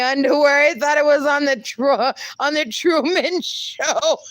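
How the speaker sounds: high voice bubbling into laughter; laughing while reading. Real, not acted. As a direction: read it on the edge of cracking up. Cracking up while reading comment.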